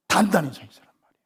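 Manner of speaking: fast, hushed whisper of the command; whispered repeat of the preached line. Shown as a demonstration. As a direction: drop suddenly to a whisper.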